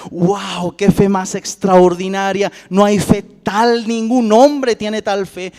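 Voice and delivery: loud, slow, drawn-out marvelling; mock amazement. Jesus supposedly marvelling at Peter's faith, mock amazement. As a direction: overdo the admiration, stretching the words. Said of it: "de pronto Jesús le dijo".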